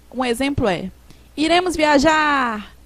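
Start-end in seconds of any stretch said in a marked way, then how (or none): 1.4-2.7 enthusiasm. Shown as a demonstration. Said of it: "No entusiasmo".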